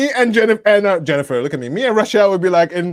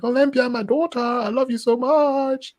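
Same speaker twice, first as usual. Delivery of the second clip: a much higher mock declaration, slow; mock scream; 11 semitones higher, slower than usual. Dad doting on his daughter Olympia, high and slow. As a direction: cry out your love, drawn out.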